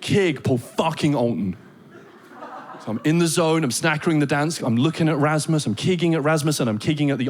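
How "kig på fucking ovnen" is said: angry roommate. Retold or imitated. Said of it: "he was really, really angry".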